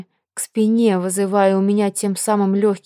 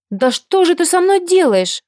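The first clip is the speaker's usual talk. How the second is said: shrill outburst; 10 semitones higher, 5 dB louder than usual. A narrator's reading. Agnesa bursting out at the hero, high and loud. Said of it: "взвилась Агнеса".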